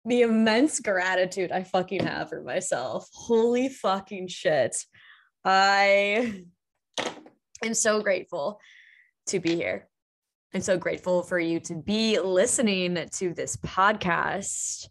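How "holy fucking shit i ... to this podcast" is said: close to tears. Real, not acted. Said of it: "I'm, like, about to cry right now".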